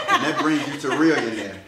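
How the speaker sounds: laughing mid-sentence. Real, not acted. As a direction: say it through a laugh. Laughs while answering.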